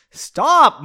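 high, loud yelled stop; yelling stop. Acted. Margot yelling at Pauline spilling popcorn, loud shout. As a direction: shout it through laughter. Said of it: "Margot yelled".

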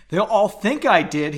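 half-hearted wail; mild wail. Acted. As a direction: complain it like a first wail. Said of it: "he wailed".

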